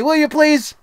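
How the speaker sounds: normal talking voice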